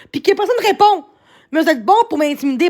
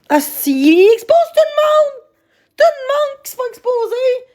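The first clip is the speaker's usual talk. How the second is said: angry outburst; 8 semitones higher than usual. Real, not acted. Outburst about being exposed.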